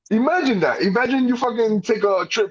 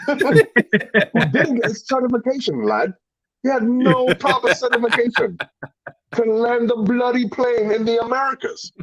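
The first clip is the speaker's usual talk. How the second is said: lightly put-on British accent, higher; a hint of a British radio pilot; 5 semitones higher than usual. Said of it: "I gotta do with a British accent".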